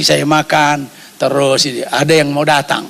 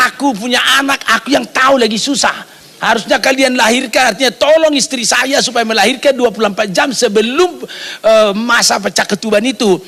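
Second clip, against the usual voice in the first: retold indignant protest; 5 semitones higher than usual. Retold quarrel with hospital staff.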